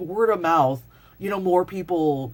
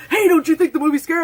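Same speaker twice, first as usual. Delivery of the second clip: sudden prank voice; 10 semitones higher, 8 dB louder, faster than usual. Retold or imitated. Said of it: "someone would just go".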